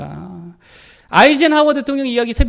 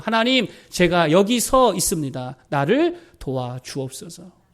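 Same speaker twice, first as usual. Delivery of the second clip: slow humble prayer; 3 semitones lower, slower than usual. Retold or imitated. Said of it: "기도 한마디 하죠".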